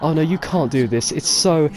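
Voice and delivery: pleading protest building into a laugh; laughing by the last words; imitating Lister. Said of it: "Lister basically goes".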